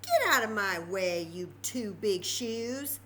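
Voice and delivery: put-on bold old lady. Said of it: "said the little old lady".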